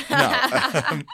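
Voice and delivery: breaking into laughter; laughing. Real, not acted. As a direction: laugh through the words. Cracks up at own joke.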